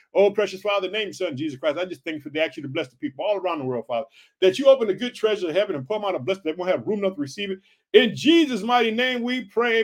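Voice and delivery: rapid, run-on spoken prayer; fluent preacher's prayer at a quick clip; closing prayer. Real, not acted. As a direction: pray it through briskly without stopping.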